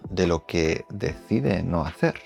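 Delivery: hyped-up YouTube intro voiceover; clickbait video narrator. Acted. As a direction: tease the viewer to keep watching. Video intro voiceover over music.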